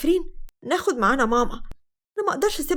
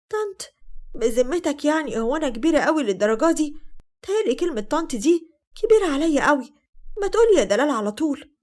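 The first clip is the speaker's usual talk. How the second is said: slightly raised, coquettish objection; coy protest; 3 semitones higher than usual. Acted. Woman coaxing Ahmed to drop "auntie", coy. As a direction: tease him out of the formality.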